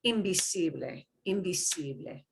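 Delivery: invisible with vi-SI-ble stressed; invisible, lean on the SI syllable; stress on second to last. Shown as a demonstration. Teacher modelling for class, invisible stressed on the second to last syllable. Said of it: "we give more emphasis to the second to the last syllable".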